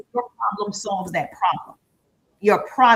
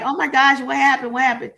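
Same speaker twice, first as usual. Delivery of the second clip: replaying her own confused panic, a bit louder; mock panic; 3 semitones higher, 5 dB louder than usual. Coach replaying her tech panic, flustered. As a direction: act out the flustered moment. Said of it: "I was definitely like".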